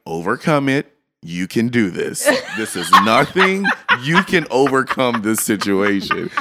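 breezy, laughing pep talk; teasing reassurance to the shocked woman; mock encouragement. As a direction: coach her through it with a grin. Mock-coaching the stunned woman.

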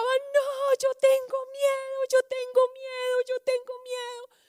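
put-on high child's voice, calling out in fear; boy at the window calling down to the firefighters, high and scared; scared child crying out. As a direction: play the frightened boy pleading from the window. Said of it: "el niño les gritaba".

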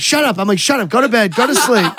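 high, giggly shushing; giggling shut up; laughing hush. Retold or imitated. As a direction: tell her to go back to sleep while laughing. Hushing girlfriend, still laughing.

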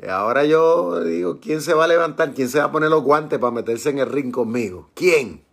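God playfully daring all comers; jocular challenge. Acted. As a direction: throw down a half-joking boxing challenge, voice lifted at first. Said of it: "como que está siendo medio jocoso ahí". (reto medio jocoso, con voz retadora)

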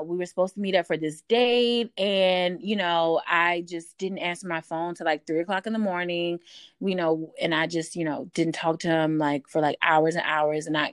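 a hint of innocent whining; playing the clueless Leo. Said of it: "I'm a Leo calling you".

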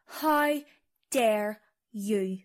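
understated affront, falling in pitch; subdued mock offence; wounded indignation. Offended guide repeats herself, subdued.

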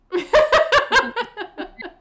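high, bright laugh; a real burst of laughter. Real, not acted. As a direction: laugh at yourself. Laughs at her own gaffes.

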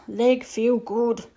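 terse and grave; Little Bear voice. Acted. Little Bear to the boy, slow and terse.

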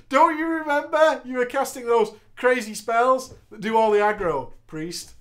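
lightly voiced Cena, accusing; voicing Cena again. Cena re-accusing the priest, lightly voiced. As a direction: repeat the blame with a grin. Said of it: "Cena then said".

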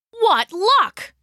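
high, loud burst of delight; delighted exclamation. Acted. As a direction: exclaim happily at a lucky find. Character delighted at finding a cave.

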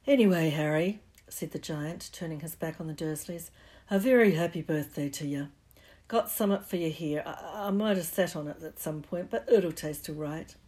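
hearty, loud birthday wish; cheerful giant. Acted. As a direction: beam it at the boy. Giant wishes Harry happy birthday.

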